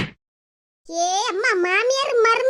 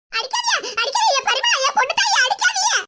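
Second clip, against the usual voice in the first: pleading cry; 4 semitones higher than usual. Acted. Begging someone to stop hitting.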